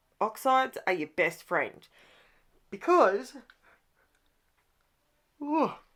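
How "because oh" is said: words pushed through a yawn, pitched up. Explaining paper colours after being up all night, yawning while talking. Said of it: "sorry, yawning".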